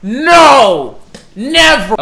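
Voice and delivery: playful protest. Acted. Acting tickled character protesting.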